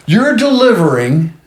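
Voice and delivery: high, drawn-out mock yell; retold screaming. Patient confronting the postmaster, half-voiced indignant scream. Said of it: "I'm screaming at him, going".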